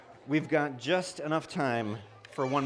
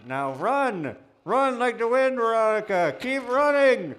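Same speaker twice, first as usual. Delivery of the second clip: high, loud excited yelling; shouting; 9 semitones higher, 7 dB louder than usual. Real, not acted. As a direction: yell her back to her seat. Shouting at fleeing volunteer.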